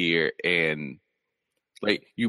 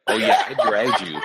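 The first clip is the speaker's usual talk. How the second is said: mock smug boast; slower than usual. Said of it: "she said, like".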